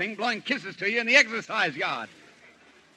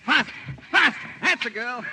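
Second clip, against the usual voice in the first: urging; 4 semitones higher than usual. Acted. Urging her on.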